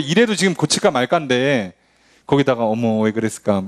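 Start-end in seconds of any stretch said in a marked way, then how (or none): 2.7-3.6 soft scolding. Retold or imitated. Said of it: "이런다고 뭐".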